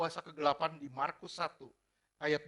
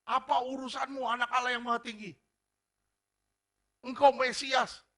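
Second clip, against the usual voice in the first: higher, half-acted demon taunt, slowing on the last words; mock demon cry; 8 semitones higher, 7 dB louder than usual. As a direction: voice the demon crying out at Jesus, a touch hammed. Preacher voices the shouting demon.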